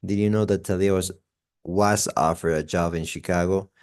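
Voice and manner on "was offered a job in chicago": WAS made longer and stronger; stress on was. Shown as a demonstration. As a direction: lean on the word "was". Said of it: "we make it longer and stronger".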